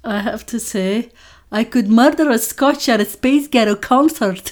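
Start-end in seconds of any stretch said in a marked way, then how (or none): 1.5-4.5 shaky attempt at a Scottish accent. Shown as a demonstration. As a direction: try a sexy Scottish accent, laughing. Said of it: "a phrase that you're supposed to say, I think, in a Scottish accent".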